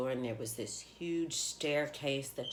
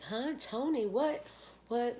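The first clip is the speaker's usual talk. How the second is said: much higher, baffled questions; puzzled by the friend's message, much higher; confused surprise; 11 semitones higher, slower than usual. Retold or imitated. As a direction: blurt it out, completely thrown. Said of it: "And I was like".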